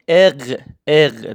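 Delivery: اق as "er" with a throaty uvular r; German letter R. Shown as a demonstration. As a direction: say اق twice, German R made at the back of the throat.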